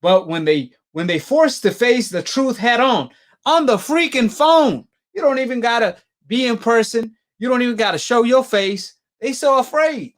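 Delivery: fired-up preacher energy, pressing every point; calling out cowards to the chat, loud and high; heated rant. Real, not acted. Ranting at fighters dodging the debate.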